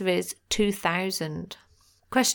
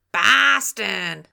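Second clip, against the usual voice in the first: a proud, louder Boston accent on "Boston", with a broad "Bah-ston" vowel; 5 dB louder than usual. Shown as a demonstration. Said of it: "I'm an impersonating wizard".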